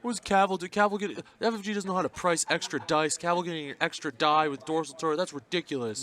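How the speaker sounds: high whiny gripe about the game; complainer voice. Acted. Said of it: "I like your complainer person voice".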